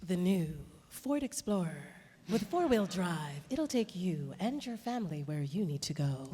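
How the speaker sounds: smooth car ad voice-over; car commercial voice. Shown as a demonstration. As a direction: read it like a radio car commercial. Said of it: "sometimes you hear a voice like".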